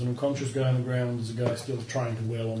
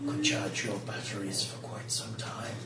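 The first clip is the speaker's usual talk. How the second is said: dragon voice; slower than usual. Acted.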